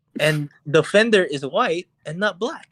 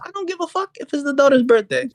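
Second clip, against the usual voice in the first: higher, impatient retold brush-off; retold annoyance; 11 semitones higher than usual. Pushing Steven to call the store, impatient. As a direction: wave off the excuse, irritated. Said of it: "and I'm getting annoyed".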